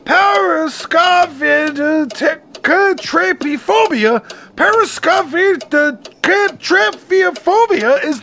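Parascovidetetraphobia sounded out syllable by syllable, slowly; stretched, careful Parascovidetetraphobia; slow careful spelling-out. Shown as a demonstration. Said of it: "oh God".

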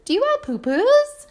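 high, sweet sing-song coaxing. Retold or imitated. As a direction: coo it sweetly like asking a toddler. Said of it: "in a sweet sing-song voice".

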